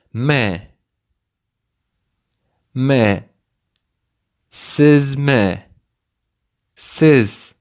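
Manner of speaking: Мә, then Сезме, then Ләсезме, each piece set apart; built up from the end. Shown as a demonstration. Teacher builds the word for the learner, part by part. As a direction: build Беләсезме backwards, piece by piece. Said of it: "Repeat part by part".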